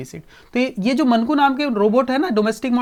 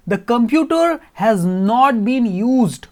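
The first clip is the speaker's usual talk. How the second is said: metallic robot voice; much slower than usual. Acted. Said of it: "metallic voice में robot".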